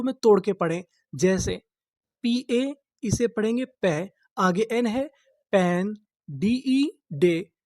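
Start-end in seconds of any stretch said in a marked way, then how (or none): 5.5-7.5 very slow, syllable by syllable. Shown as a demonstration. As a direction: spell it out slowly for the class. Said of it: "syllable-by-syllable reading demo". (धीरे-धीरे अक्षर-अक्षर पढ़ना)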